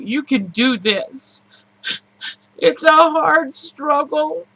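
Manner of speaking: fighting back tears; crying. Real, not acted. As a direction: voice breaking, slow and tearful. Emotional vlog, voice breaking.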